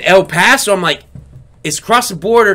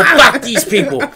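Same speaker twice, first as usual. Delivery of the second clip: mock exasperated; 10 semitones higher, 4 dB louder than usual. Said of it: "You know".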